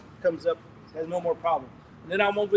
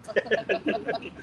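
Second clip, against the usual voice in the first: drawn-out poquito; much slower than usual. Retold or imitated. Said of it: "I was like".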